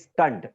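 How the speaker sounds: final beat "स्टंट" set apart on its own; split into syllables. Shown as a demonstration. Teacher finishing the count of mouth changes, syllable set apart. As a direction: land "स्टंट" as a separate syllable. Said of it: "मतलब दो बार होता है".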